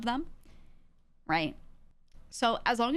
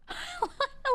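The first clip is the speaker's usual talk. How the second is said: very high burst of laughter; amused laugh. Real, not acted. Laughing at a chat comment on her voice, amused laugh. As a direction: crack up in a high giggle.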